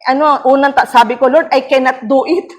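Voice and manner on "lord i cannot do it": higher, pleading prayer to Lord; a touch of fearful begging; retold plea. Pastor recalling her frightened plea to Lord. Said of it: "Yun yung deklarasyon ko".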